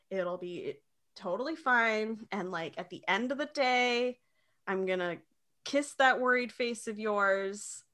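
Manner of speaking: soft, gentle retold comforting; tender, quietly soothing; sweet reassurance. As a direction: imitate a partner calmly reassuring, slowing towards the end. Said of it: "it's just very sweet".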